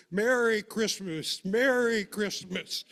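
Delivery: joyful holiday call. Retold or imitated. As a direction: call out the greeting happily from the wagon. Papa calling from the wagon.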